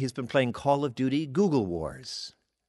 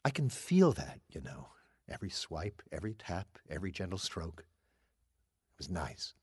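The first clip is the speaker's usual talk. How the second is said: soft and intimate; 5 semitones lower, 9 dB quieter than usual. Acted. Assistant reminisces about being touched.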